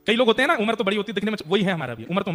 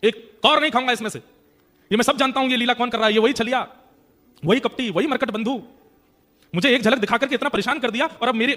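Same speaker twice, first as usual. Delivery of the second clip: raised, higher voice, hurt and defiant; indignant refusal; 5 semitones higher, 4 dB louder than usual. Acted. Kale Khan angrily refusing the temple offering. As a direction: push the plate away, proud and wounded.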